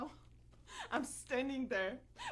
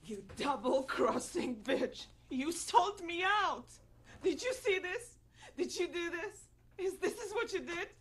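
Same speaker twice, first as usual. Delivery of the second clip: angry accusation; 3 semitones higher than usual. Acted. Witness confronting who sold her out, angry and incredulous. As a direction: confront the one who betrayed you. Acted monologue confronting a betrayer.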